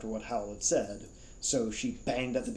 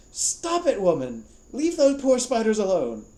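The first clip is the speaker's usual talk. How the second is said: high, loud outraged yell; furious high yell at the old woman; shout; 11 semitones higher, 10 dB louder than usual. Acted. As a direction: shout from behind the door at her. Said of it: "Howell shouts from bathroom".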